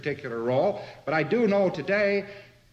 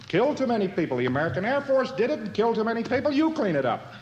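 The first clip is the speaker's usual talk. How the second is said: mock German retort; 6 semitones higher, faster than usual. German blames American Air Force.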